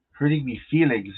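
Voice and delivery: playful mock Irish accent; jokey attempt at an Irish accent. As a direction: put on a light Irish lilt. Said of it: "That's my Irish accent".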